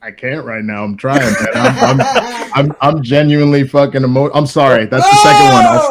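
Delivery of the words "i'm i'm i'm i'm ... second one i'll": laughing through tears, breaking into a shout; choked-up laugh that bursts out loud; overcome with emotion. Real, not acted. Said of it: "I'm really emotional right now".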